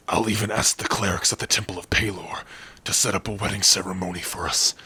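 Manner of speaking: excited. Acted. Excited wedding plans.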